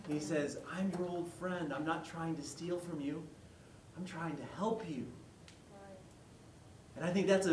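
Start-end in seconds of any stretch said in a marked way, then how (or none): 0.8-5.0 gentle Gandalf. Retold or imitated. Gandalf comforts Bilbo.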